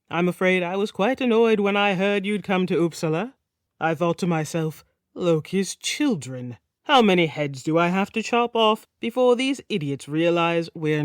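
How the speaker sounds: a hint of a jovial Nordic king joking; lightly voiced King Gitzer, mock annoyed. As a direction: tease the guest with dark humour.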